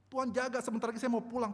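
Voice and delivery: high, forceful retold prayer; urgent plea. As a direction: beg God loudly for protection. (memohon kepada Tuhan dengan lantang)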